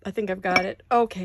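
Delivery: talking through hiccups; speaking while hiccuping. Real, not acted. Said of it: "I have the hiccups".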